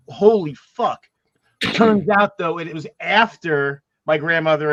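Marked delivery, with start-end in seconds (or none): 0.1-1.1 shocked. Retold or imitated. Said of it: "I was like".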